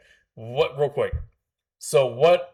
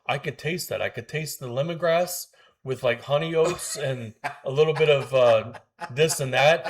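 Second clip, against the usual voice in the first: water connoisseur; 3 semitones higher than usual. Retold or imitated. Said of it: "like a water connoisseur".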